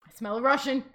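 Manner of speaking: a hint of a hungry old witch; mock witch sniffing. Baba Yaga sniffing out a hidden Russian, a lightly voiced witch. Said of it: "she'll be like".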